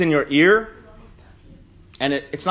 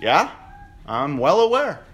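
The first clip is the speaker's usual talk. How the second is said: solemn confession. Pretend.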